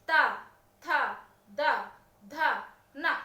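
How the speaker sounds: त थ द ध न with the tongue pressed on the teeth; dental demo. Shown as a demonstration. Teacher lets students feel teeth in त थ द ध न. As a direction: tap each of त, थ, द, ध, न against the teeth. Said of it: "तवर्ग का उच्चारण करते समय आप देखिएगा आपकी जिह्वा दांतों पर प्रेशर मारती है".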